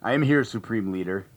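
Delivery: muffled behind a mask. Real, not acted. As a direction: talk through a Kylo Ren mask. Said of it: "muffled voice".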